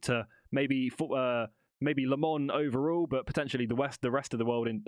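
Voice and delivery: stumbling over words; tripping over the words, restarting; stuttering. Real, not acted. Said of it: "God, I'm really stuttering here".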